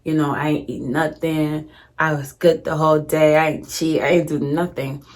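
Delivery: mildly drained, subdued mock protest; feigned exhaustion. Insisting to grandmother the fast was kept, feigned exhaustion. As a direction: lightly play faint from hunger. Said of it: "And I'm just acting like".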